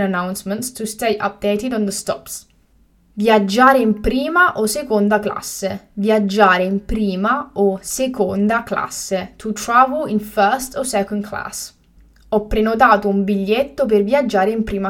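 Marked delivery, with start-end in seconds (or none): 5.9-9.3 slow and carefully spaced; slow, clear repetition. Shown as a demonstration. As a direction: say it again slowly for learners. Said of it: "teacher repeats the word twice".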